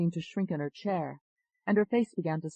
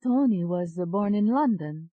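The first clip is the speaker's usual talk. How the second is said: put-on slow, raised Italian-accented voice; 4 semitones higher, 6 dB louder, slower than usual. A narrator's reading. Second alter explaining Tony to doctor, Italian accent. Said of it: "You have an Italian accent".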